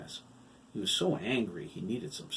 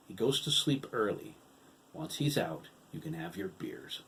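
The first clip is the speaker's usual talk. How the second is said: calmly. Acted. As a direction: settle the voice right down. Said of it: "he calmly added".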